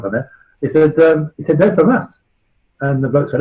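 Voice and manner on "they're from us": higher West Country voice; proudly in a West Country accent. Retold or imitated. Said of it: "West Country accent".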